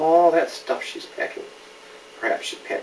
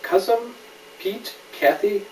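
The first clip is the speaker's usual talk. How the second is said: clear, lively storybook reading; gentle picture-book narration; reading to a child. A narrator's reading. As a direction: read it to a little one, naming each friend. Reads picture book aloud.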